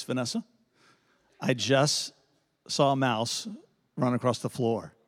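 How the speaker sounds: low, soft, careful calm to his wife. Retold or imitated. Husband telling wife about the mouse, very calm and low. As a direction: break the news gently so nobody panics. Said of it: "I just said in a very calm voice".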